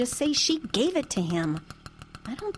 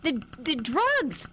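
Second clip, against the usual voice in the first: staged loud accusation; 3 semitones higher, slower than usual. Pretend. Daughter joins mother's fake drug deal, awkwardly hammed-up. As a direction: go along with the act for eavesdroppers. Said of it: "Then get louder".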